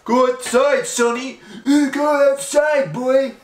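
grandpa voice. Retold or imitated. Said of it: "Talk with fucking grandpa".

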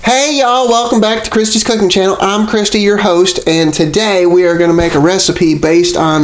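upbeat, bright YouTube host read; cheerful presenter selling the recipe; cooking show host. Acted.

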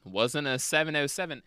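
firm, dismissive mock denials; full confidence. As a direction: knock down each theory as the sure pilot. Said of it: "just, like, full confidence".

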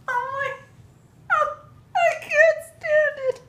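high, tearful squeal of being overwhelmed; real happy crying. Real, not acted. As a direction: voice cracking up into happy tears. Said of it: "I'm crying again".

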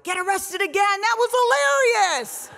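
mock excited squeal; gushing fans. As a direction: gush like a thrilled fan. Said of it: "people were like".

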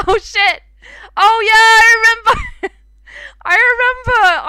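high, loud burst of realisation; laughing yelp of sudden memory; excited remembering. Real, not acted. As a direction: shout it as it comes back to you. Suddenly recalling in a game.

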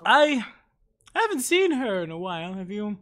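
mild fey matron voice; lightly voiced eccentric elder. GM keeps NPC voice.

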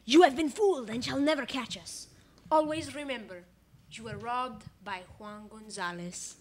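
a hint of a gloating outlaw reading his note; gloating villain note. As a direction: sign off like a smug outlaw. Thief's note read aloud.

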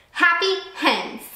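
high, slow eureka cry; a slow, high burst of discovery; sudden realization. A narrator's reading. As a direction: seize on the idea at once. May May realizes idea.

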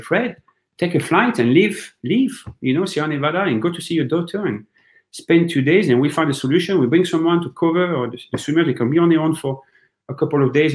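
quoting a colleague. Retold or imitated. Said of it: "he told me again, he said".

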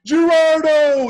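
high, loud, stretched-out name; slow, drawn-out joyful greeting; excited call. Retold or imitated. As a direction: sing out the name in delight. Director greets him, shaking him.

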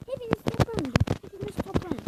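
loud shouted summons; loud call. Real, not acted. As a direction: bellow for them all to gather. Yaratıkları çağırıp bağırıyor. (yüksek sesle çağırarak)

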